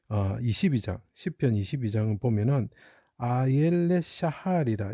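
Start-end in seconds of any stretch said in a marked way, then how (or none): 3.2-4.9 아옐레 샤할이라 spelled out slowly, syllable by syllable; 아옐레 샤할이라 pronounced slowly as a Hebrew title; Hebrew term. Shown as a demonstration. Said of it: "이렇게 표현합니다".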